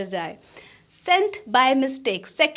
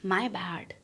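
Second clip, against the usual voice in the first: whispered; 5 semitones lower, 8 dB quieter than usual. Real, not acted.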